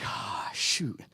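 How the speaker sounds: soft, deflated exhale of regret; chastened sigh. Retold or imitated. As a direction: let the air out, caught in the wrong. Acted reaction to God's correction.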